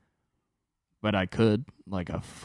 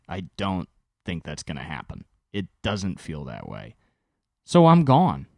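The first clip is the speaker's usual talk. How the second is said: imitating his own angry rant. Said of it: "I have moments where I say".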